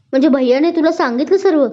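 high, thrilled questioning; almost squeal with joyful disbelief; excited, voice lifted as the news sinks in; delighted near-shout. A narrator's reading. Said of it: "ती जवळजवळ ओरडलीच".

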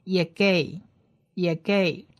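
"也gay" ending on the open vowel, final h unheard; silent final h. Shown as a demonstration. Teacher models the whole word, "也gay" with silent final h. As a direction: let "也gay" end without sounding its h. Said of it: "感觉上就是没有在发音".

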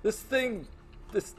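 high, loud, puzzled soldier voice; confused guard. Acted. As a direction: squeak it out, baffled and uneasy. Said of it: "they say things like".

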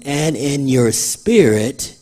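"and" picked out, phrase drawn out slowly; slow down and set "and" apart before "in your spirit"; stress on AND. Shown as a demonstration. Preacher pointing congregation to the conjunction, slow stress on "and". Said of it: "Look at the conjunction".

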